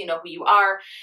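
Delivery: ordinary talk, nothing marked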